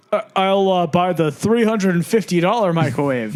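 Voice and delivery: mock a shopper pretending they can afford it; hesitant, then casually splashing out; putting on airs. Acting shopper showing off in front of neighbour.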